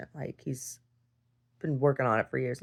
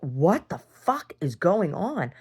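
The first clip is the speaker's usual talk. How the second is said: bewildered cry; 3 semitones higher, 5 dB louder, much slower than usual. Retold or imitated. Retelling chaotic family fight.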